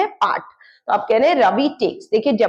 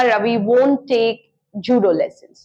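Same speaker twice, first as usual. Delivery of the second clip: slow model sentence; 2 semitones lower, much slower than usual. Shown as a demonstration. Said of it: "Ravi कोई judo lessons नहीं लेगा".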